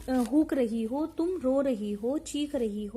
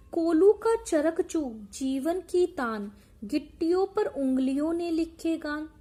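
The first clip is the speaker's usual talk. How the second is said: poem recitation. Acted. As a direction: intone the lines deliberately. Teacher recites poem lines.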